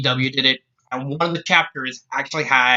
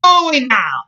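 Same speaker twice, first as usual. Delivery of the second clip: loud, high-pitched Scots outburst; angry shout; 12 semitones higher, 5 dB louder than usual. Acted. Scotswoman taking offence at Jack, shouting. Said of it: "she shouted at him".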